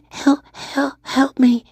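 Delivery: cry for help. Pretend. Trapped ghost calling for help.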